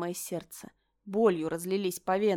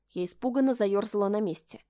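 usual speaking voice

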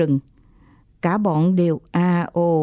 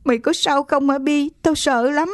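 higher, lightly voiced tearful girl; a hint of crying worry; girl near tears asking her bitten friend; tearful fear; 7 semitones higher than usual. A narrator's reading. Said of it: "Con Hương méo máu".

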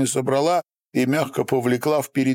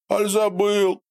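mocking question; 11 semitones higher than usual. A narrator's reading. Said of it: "сказал без смеха".

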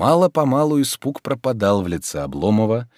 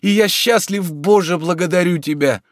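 light-hearted and happy; cheerful; 11 semitones higher, 4 dB louder than usual. A narrator's reading. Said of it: "весело заключил он".

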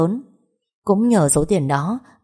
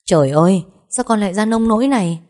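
loud, high frightened mother crying out; a mother shocked at her daughter's state, loud; alarmed cry; 3 semitones higher, 5 dB louder than usual. Acted. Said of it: "bà Hương liền bị con gái mình dọa sợ".

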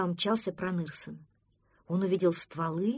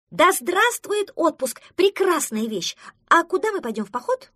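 a duckling cheers the news of a holiday; joyful cheer; 10 semitones higher, 9 dB louder than usual. Acted. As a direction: hail the holiday like a parade.

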